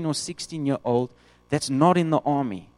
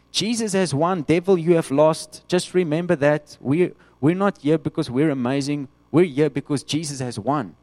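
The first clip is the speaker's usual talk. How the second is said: triumphant shout; 2 semitones higher, 5 dB louder than usual. Acted. The church shouting victory at the devil, loud and triumphant.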